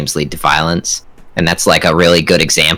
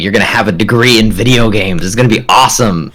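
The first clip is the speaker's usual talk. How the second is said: excited, higher-pitched pep talk to a younger self; excited telling little me; 4 semitones higher than usual. Acted. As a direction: tell a kid great news, pitched up. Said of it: "little me".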